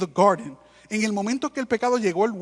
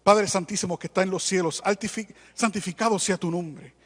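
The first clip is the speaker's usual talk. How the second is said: imitando con burla una oración rebuscada; oración grandilocuente; 4 dB louder than usual. Retold or imitated. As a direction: remeda al hermano que ora con palabras bonitas, con un final más fuerte. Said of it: "empiezan con una palabrería bien grande". (se burla del hermano que ora con palabrerías)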